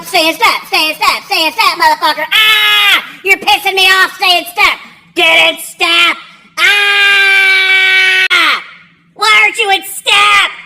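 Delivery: high-pitched, harried yelling; screaming drill instructors. Retold or imitated. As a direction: yell like an exasperated drill instructor. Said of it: "screaming at everybody".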